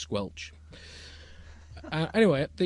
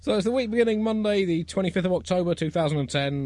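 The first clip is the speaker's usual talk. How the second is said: high, raised show-opening announcement; announcer; 9 semitones higher, 6 dB louder than usual. Acted. Host opening the Bugle for the week, announcer delivery. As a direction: announce the date to the audience. Opens the show, dating the episode.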